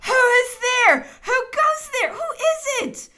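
high, startled shout; loud demand. A narrator's reading. Emperor woken with a start, demanding loudly who is there. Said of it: "awoke with a start and loudly demanded".

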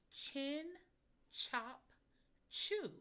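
each word called out loud and high, one by one; clear model words. Shown as a demonstration. Teacher modeling words loudly for listening ears. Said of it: "listen to the words".

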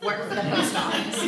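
cutting comeback. Retold or imitated.

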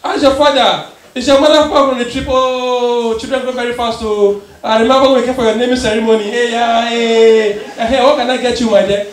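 a hint of a fussy pharmacist; chatty pharmacist. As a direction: gush like a nosy old family friend. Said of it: "the pharmacist go like".

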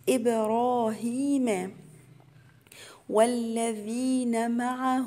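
drawn-out tajweed chant, each syllable held; slow Quran recitation. Shown as a demonstration. Teacher recites the verse to students as a slow chant. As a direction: recite it slowly for the students, holding the long vowels. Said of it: "أقول إب".

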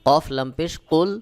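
কুল with a hard, pressed ক; firm qaf sound. Shown as a demonstration. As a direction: push the কফ sound firmly in কুল. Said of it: "আওয়াজটা শক্ত করে একটু চাপ দিয়ে উচ্চারণ করতে হবে".

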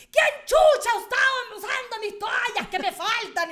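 loud, high, drawn-out mock scream; hammed-up scolding shout, stretched out; imitating mom yelling. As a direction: yell it like an outraged mother. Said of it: "sale gritando así".

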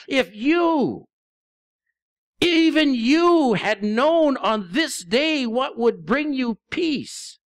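slow, drawn-out lament, stretching even you; grieving over the city, words pulled out slowly. Acted. Preacher as Jesus weeping over Jerusalem, slow lament. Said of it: "he cried out and he said".

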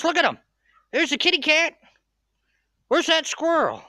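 high, sing-song voice for the dog. Real, not acted. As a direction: coo and rev the dog up. Excited baby talk to the dog.

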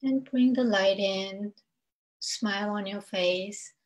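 unhurried meditation guide, long pauses between phrases; spaced-out phrases, leaving room to breathe; guided meditation. Acted. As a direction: lead listeners gently through breath and grounding.

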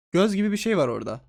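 ordinary talk, nothing marked

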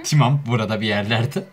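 "Timam" with i in place of tamam; heavily accented reading. Shown as a demonstration. Reading back the too-accented line, "Timam" with an i. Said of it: "Çok aksanlı oldu".

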